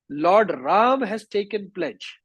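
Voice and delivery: slow, high, drawn-out acted alarm; frightened report. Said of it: "He became very frightened".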